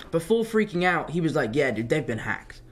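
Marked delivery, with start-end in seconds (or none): 1.5-2.6 unimpressed brother. Retold or imitated. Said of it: "who's kind of savvy, before freaking out".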